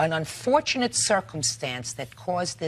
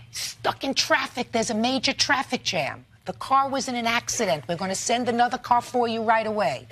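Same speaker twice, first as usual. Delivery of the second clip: lightly mimicked dispatcher, pitched higher; imitated excuse-maker; 5 semitones higher than usual. Judge quoting car service's excuses for a late car, mimicking. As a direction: reel off stock excuses in a higher, lightly mocking voice.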